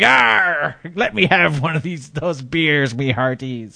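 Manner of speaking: lightly voiced sea hag demanding beer like a pirate; hammed-up pirate hag. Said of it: "making her seem like old Greg".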